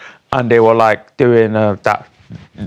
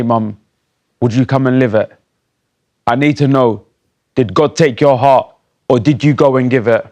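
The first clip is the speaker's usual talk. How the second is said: spoken-word poem. Acted. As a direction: recite it line by line to a lost mother. Recites own poem to mum.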